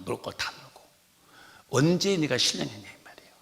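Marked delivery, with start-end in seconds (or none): 1.7-2.9 hushed pointed whisper; whispered reproach. Real, not acted. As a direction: lean in and whisper the jab. Whispered rebuke to listeners. (속삭이는 꾸짖음)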